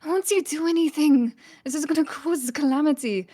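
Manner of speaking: a mild hurried alarm; hurried plea. Acted. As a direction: rush the words, panicked. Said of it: "run towards the guards".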